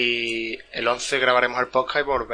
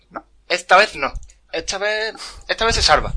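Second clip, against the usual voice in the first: high, loud pleading, louder and higher; hopeful plea; 7 semitones higher, 5 dB louder than usual. Retold or imitated. To friends about the Lion King, high hopeful pleading. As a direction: beg the film to spare him. Hoping the character survives.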